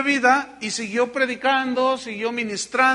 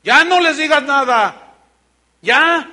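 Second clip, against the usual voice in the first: forceful preaching; 6 semitones higher, 10 dB louder, slower than usual. Real, not acted. Preacher exhorts the congregation.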